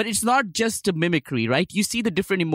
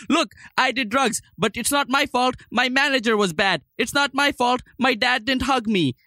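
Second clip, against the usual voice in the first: high, whiny self-pitying voice; whiny singer impression; 6 semitones higher than usual. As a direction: play a whining rock star making excuses. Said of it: "are you saying it as that singer?".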